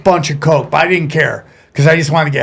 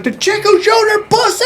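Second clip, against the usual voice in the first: put-on drunken announcement. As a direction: announce it high and long, reliving the drunken moment. Drunk host announcing the winner.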